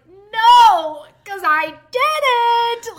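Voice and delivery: loud, very slow stubborn no; a kid stubbornly insisting on innocence; loud drawn-out childish denial; indignant denial. Retold or imitated. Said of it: "I was like".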